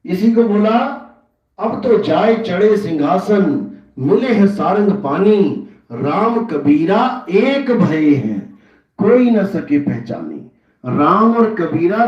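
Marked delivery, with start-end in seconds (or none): 1.6-10.3 slow, deliberate scriptural recital; verse recitation. Acted. Preacher quoting Kabir on becoming one with Ram, slow verse recitation. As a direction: stretch out each phrase of the verse.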